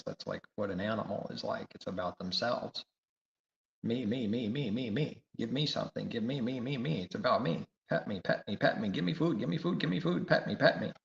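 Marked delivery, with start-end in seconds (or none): 3.8-10.9 higher whiny demanding voice, lightly done; mock needy pet. Preacher mimicking a selfish pet demanding food, light whiny. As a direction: whine like a greedy pet begging.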